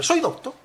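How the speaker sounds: high-pitched "doctor" as "docto", no r; wondering "doctor", ending on a bare o; final r dropped. Shown as a demonstration. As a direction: ask it with "doctor" cut to "docto". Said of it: "quitando la R".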